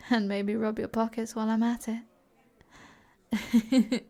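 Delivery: breaking into a laugh at the end; teasing laugh. Acted. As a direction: tease and laugh through the last word. Teasing suggestion that she is a thief.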